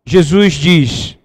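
loud, pounding preacher's call; full-voiced sermon climax; fiery preaching. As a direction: preach it out to the crowd.

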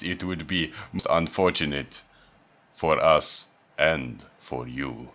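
formal, lightly voiced skeleton; a hint of a stern skeleton host. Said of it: "I want a skeleton voice".

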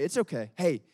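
put-on calm a scared child down gently; soothing parent. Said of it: "and say".

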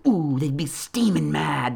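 conspiratorial whisper. Real, not acted. Teasing his critics in a gleeful whisper.

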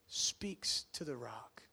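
slow hushed whisper. Shown as a demonstration. Preacher telling Moses' story to the church, slow whisper. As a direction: lean in and whisper it. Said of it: "whispered storytelling".

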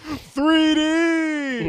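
high, loud reviewer cry; hammed-up reviewer shout; mock Cinema Snob yell. Inside reference yelled.

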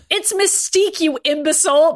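high, sharp angry correction; barked. Acted. Mystique snaps back at Ryan, barking. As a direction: bite back at him, insulted. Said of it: "Mystique barked back at him".

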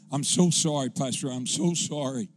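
imitating a receptionist weeping an apology; mock tearful apology. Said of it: "crying, sobbing".

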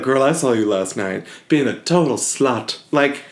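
light sassy gossip voice, lightly put on; sassy best friend spilling gossip in a mirror confessional; comical Keke Palmer voice. Friend gossiping in a mirror confessional, light comic sass. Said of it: "Keke Palmer's, like, comical voice".

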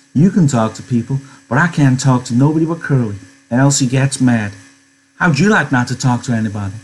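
lightly voiced American woman complaining; a touch of plaintive reproach; lonely complaining woman. Voices Curley's wife.

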